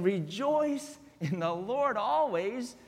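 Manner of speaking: quiet contrast to the proclamation. Acted. Pastor setting joy against chains softly.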